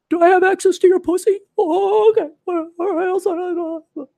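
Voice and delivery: high mocking millennial voice; lisping effete millennial; millennial impersonation. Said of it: "limp-wristed millennial impersonation".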